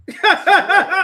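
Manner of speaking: loud high burst of laughter; real laugh breaking out. Real, not acted. Speaker laughs loudly at his own punchline.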